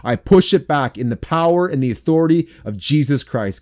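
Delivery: insistent intercession, building in intensity; fervent prayer. Real, not acted. Pastor praying against suicidal thoughts, fervent and commanding. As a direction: pray with growing authority and urgency.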